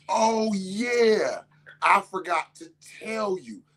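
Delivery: sarcastic. Retold or imitated. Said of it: "And I was like".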